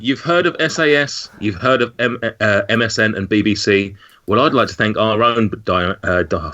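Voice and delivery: tripping over the words; fumbled, broken-up read; stumbling. Real, not acted. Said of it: "Just that line has been absolutely slaughtered".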